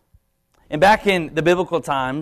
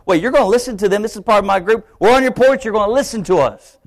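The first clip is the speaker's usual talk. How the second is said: higher and louder, indignant; prideful indignation; 5 semitones higher, 4 dB louder than usual. Retold or imitated. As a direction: hold on, girl, mock offended pride. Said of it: "my pride comes in".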